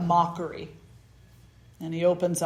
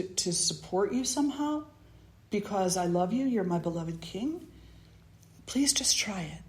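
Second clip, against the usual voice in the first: humble pleading beggar; 3 semitones higher than usual. Acted.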